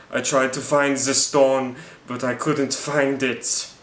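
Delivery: slow, drawn-out ghostly voice; mock eerie wraith. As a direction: moan it out like a lost spirit. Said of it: "he's like".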